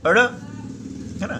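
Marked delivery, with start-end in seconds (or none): 0.1-0.2 अड़ stretched slowly and lifted; slow letter sound. Shown as a demonstration. Scene: teacher introduces the next letter, slow drawn-out sound. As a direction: hold अड़ long so the flap is heard. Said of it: "अड़ जैसे".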